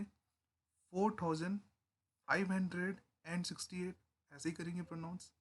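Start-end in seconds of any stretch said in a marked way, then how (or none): 0.0-4.0 slow demo reading. Shown as a demonstration. Teacher showing students how to read the number, slowly. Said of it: "तो हम इसको कैसे pronounce करेंगे".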